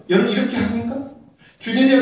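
ordinary delivery

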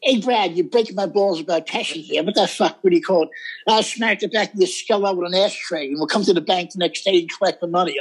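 lightly voiced mobster threat; mock tough-guy impression; Joe Pesci. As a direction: play a wiseguy griping and threatening. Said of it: "Little Joe Pesci".

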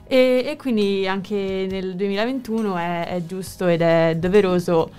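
muffled behind a mask; talking through a face mask. Real, not acted. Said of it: "è difficile parlare con la mascherina".

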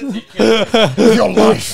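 slow, drawn-out dramatic vow; mock dramatic. Joking to his friend about the poster, slow mock-solemn vow. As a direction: make it a solemn oath, hammed up.

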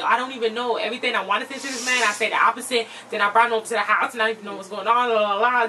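imitating a flustered husband, words tumbling out; retold frantic rambling. Husband explaining the man he brought home, mildly frantic. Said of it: "he was getting all frantic".

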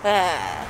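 numb mouth sound. Shown as a demonstration. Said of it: "That's how it feels".

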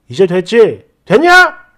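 imitated husband's huffy "됐냐"; angry husband. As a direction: mimic him snapping back in irritation. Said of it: "이러면서 막 화를 내더라고요".

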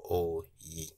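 "o yi" with both syllables kept low; low tones on "o yi". Shown as a demonstration. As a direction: say "o" low, then "yi" low. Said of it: "low intonation and low intonation".

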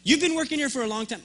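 indignant tirade at the airport worker; imagined rant. Pretend. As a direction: let loose the comeback you held back. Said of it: "I was ready to just unleash on him".

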